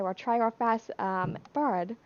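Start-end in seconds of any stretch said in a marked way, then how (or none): 1.5-2.0 "bird" in a put-on British accent; attempted British accent. Shown as a demonstration. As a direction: say "bird" with a British vowel, no American R. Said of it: "my best attempt at a British accent".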